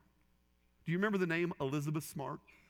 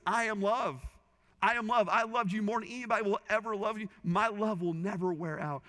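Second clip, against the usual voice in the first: raised high and loud, declaring love; fervent, high proclamation of love; voicing Jesus, fervent; 7 semitones higher, 4 dB louder than usual. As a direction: proclaim it with full conviction. Preacher voicing Jesus, climactic.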